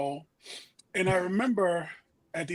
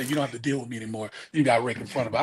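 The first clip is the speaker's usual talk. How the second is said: sarcastic; 5 semitones lower, faster than usual. Retold or imitated. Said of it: "sarcastically say".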